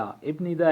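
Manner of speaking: "ابن ندا" with the written stop before n. Shown as a demonstration. Teacher contrasting spelling with sound, "ابن ندا" read by its letters. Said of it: "لیکن یہ میم کی آواز دے گا".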